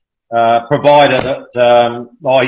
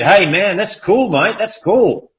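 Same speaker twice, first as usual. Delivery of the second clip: high, slow, chilled-out praise; impressed young barista; 6 semitones higher, slower than usual. Retold or imitated. Young barista reacting to a Bitcoin coffee payment, impressed. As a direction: lightly play a laid-back young barista. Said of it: "he said".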